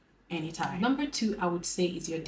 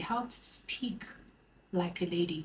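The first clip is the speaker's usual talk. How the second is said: ladylike soft voice; 5 dB quieter than usual. Shown as a demonstration. To her viewers, demonstrating a soft ladylike voice. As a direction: speak it gently like a lady. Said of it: "how to talk like a lady".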